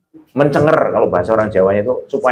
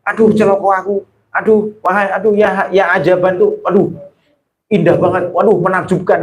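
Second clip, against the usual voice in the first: exaggerated exclamation; 4 semitones higher than usual. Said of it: "orang Arab itu ngomong".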